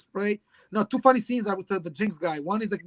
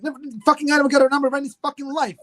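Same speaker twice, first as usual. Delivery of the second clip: louder, higher mock disgust; mock scornful rant; 6 semitones higher, 5 dB louder than usual. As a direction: spit it out at a hopeless gambler. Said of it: "he's like".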